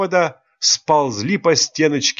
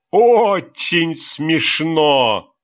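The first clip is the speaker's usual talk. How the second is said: higher, slow, groaning laugh; moaning with laughter; 5 semitones higher, much slower than usual. Acted. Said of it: "простонал от двери Руслан". (простонал сквозь смех)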